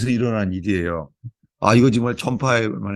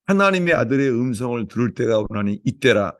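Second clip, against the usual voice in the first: opening prayer; 3 semitones higher than usual. Real, not acted. Pastor praying over the church, fervent prayer. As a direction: pray it out over the congregation.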